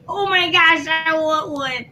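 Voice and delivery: high, drawn-out coo of longing; smitten gushing. Retold or imitated. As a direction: gush as if over a dimpled baby. Acting out gushing over babies.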